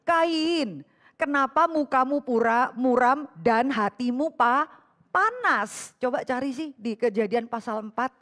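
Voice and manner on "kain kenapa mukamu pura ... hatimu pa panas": God rebuking. Acted. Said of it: "Karena Tuhan bilang".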